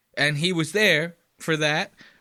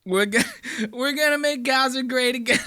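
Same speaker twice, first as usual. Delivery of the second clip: Donald Trump impression; 7 semitones higher than usual. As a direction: bellow like a bragging president. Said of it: "he goes".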